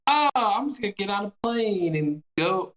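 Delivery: mock careless ease; mocking quote. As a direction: scorn his nonchalance. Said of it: "to be like".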